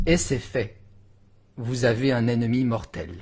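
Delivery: suspenseful step-by-step verse, broken by pauses; declaimed French poetry; dramatic poem recitation. Acted. Reads the poem to its climax.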